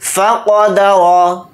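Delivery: slow demo of फ़क़दर with a full, heavy क़; heavy qaf. Shown as a demonstration. Teacher showing students the heavy क़ in फ़क़दर. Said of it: "क़ाफ़ को यहाँ पर मोटा यानी पुर पढ़ेंगे".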